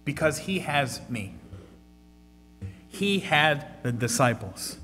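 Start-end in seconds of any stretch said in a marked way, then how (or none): 0.1-1.4 loving reassurance. Acted. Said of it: "you hear the Lord lovingly say".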